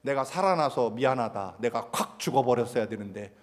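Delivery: imitating an upset mother's bitter jibe; a mild mock of sulky self-pity; sarcastic. Neighborhood mother scolding her kids, sarcastic. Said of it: "그렇게 비꼬고 조롱하는".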